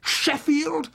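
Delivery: ordinary delivery, nothing marked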